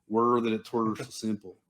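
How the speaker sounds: lightly put-on British movie line; mock British accent. Mocking somebody's fix for the world, mock British accent. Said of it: "we like to go".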